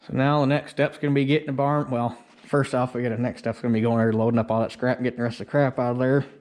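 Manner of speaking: muffled through a neck warmer. Real, not acted. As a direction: talk muffled behind cloth over the mouth. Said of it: "my mouth's kinda muffled. I got a neck warmer on".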